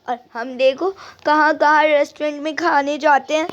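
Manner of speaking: a daughter pouring out her hurt to mother; lightly voiced hurt young daughter; upset daughter. Daughter complaining of no friends.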